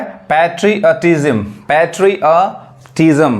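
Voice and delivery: पैट्रियटिज्म said slowly, each syllable clear: pɛʈ-ri-a-ʈi-zəm; slow clear pronunciation. Shown as a demonstration. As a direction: spell out पैट्रियटिज्म slowly for students. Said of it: "बोलो इसको". (पैट्रियटिज्म धीरे और साफ़ बोलना)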